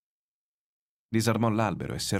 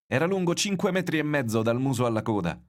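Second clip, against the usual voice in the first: higher, louder call from the water; 8 semitones higher, 4 dB louder than usual. A narrator's reading. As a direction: announce the size to everyone. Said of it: "gridò il pescatore che lo stava misurando".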